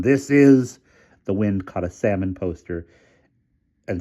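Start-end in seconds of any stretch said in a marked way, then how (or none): 0.0-0.8 cut-off shriek. A narrator's reading. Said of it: "shrieked Hamilton's terrified voice".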